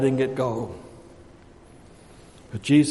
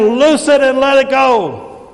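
high, ringing preacher's climax; loud exhortation; 8 semitones higher, 8 dB louder than usual. Acted. Jesus telling those tied up by sin, loud exhortation. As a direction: call it out high and drawn out.

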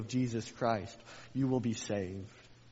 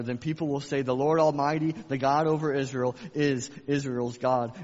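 loud, proclaiming prayer; fervent scripture reading; 3 semitones higher, 6 dB louder than usual. Acted. Preacher reading David's prayer aloud to church, loud and fervent. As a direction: read it out like a bold prayer.

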